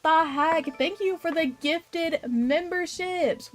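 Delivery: high, loud cry of amazement; excited, stretched-out disbelief; delighted surprise. Real, not acted. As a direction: call the name out high in happy shock. Startled by gifted memberships.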